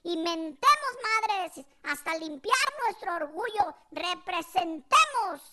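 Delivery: hammed-up call to arms; mock rallying mother. Mother rallying fellow Jaliscans, mock indignation. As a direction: raise it, then drag out the final rallying word. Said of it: "dijo luego, luego mi jefa".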